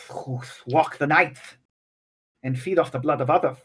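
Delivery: old scholar showing a rare book, lightly voiced. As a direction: play a fussy old scholar, only a light touch.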